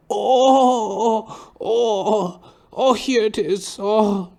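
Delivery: put-on high, loud, drawn-out old man's groan. Barber suddenly groans mid-haircut, high moan. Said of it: "he starts rustling through the drawer".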